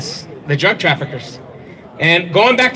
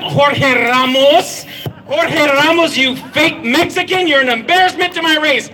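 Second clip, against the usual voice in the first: raised, higher voice calling out a name; 5 semitones higher than usual. Real, not acted. Speaker calls out Jorge Ramos from the podium, raised voice. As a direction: call him out from the stage.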